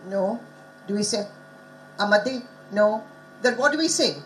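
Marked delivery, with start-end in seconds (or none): 2.0-2.4 "Amadev" with the final syllable pushed up; stress on last syllable. Shown as a demonstration. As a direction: wrongly lean on the end of "Amadev". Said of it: "each syllable has its own stress".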